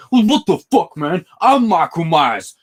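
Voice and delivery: imitated high, loud scream; hammed-up outraged yelling. Imitating a film scene of screaming at Michael Myers, mock scream. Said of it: "Busta Rhymes screaming at Michael Myers".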